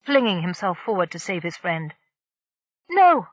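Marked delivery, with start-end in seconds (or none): 2.9-3.3 shouted no. Acted. Horrified outcry at the shot.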